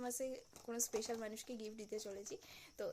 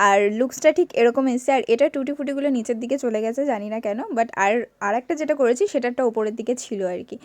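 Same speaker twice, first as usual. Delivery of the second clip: louder, recorded-over narration voice; a separately recorded louder voiceover; 21 dB louder than usual. Real, not acted. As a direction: talk it over the footage, close to the mic.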